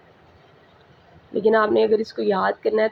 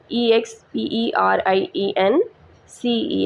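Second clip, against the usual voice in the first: spelling out letters; much slower than usual. Shown as a demonstration.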